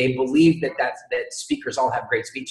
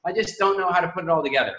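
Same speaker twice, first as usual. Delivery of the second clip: voicing her, excited; 6 semitones higher than usual. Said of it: "You're going like".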